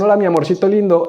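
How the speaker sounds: lightly put-on lovey-dovey caller; impostor husband. Impostor phones the wife with a pet name, mock-sweet. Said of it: "la llaman y le dicen".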